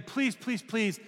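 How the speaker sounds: high, pleading mock beggar; a stranger begs to be let in, hammed-up pleading; begging. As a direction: plead like a desperate stranger, stretching out "take me in". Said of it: "begging you".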